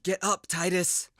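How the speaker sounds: loud, high, slow plea; desperate urging. Acted. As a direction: drag each word out to rouse him. Urging fallen friend up.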